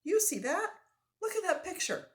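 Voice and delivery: high, loud and eager; French-Canadian voice, thrilled; excited Frenchman. Acted. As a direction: point it out breathlessly. Frenchman excited over picture.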